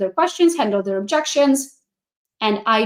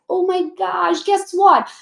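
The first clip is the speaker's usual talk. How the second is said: bright high "oh my gosh, guess what"; mildly excited pitch to a brand new agent; 6 semitones higher, slower than usual. Pretend. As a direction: share it like great news.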